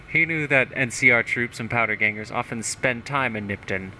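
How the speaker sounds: lightly voiced pompous politician; a touch of hammed-up self-importance; self-satisfied mayor. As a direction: read it out as a boastful small-town mayor. Reads mayor's journal in character.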